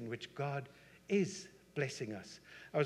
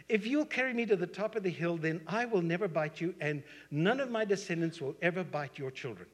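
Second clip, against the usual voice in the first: raised, insistent acted vow; emphatic promise; 4 semitones higher, 4 dB louder than usual. Snake bargaining with a hiker for a ride, emphatic promise. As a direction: pledge it firmly, starting high and easing slightly.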